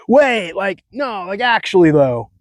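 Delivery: high mock Cali valley talk; lightly hammed California bro. Shown as a demonstration. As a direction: keep the surfer-bro voice going. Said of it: "stupid way that I speak".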